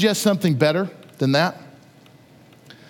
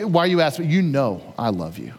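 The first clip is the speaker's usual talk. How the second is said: hurt reply; 4 semitones lower than usual. Retold or imitated. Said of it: "Almost like".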